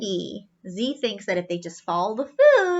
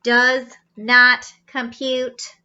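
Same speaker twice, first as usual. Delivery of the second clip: robot voice; 6 dB louder, much slower than usual. Acted. Old robots answer.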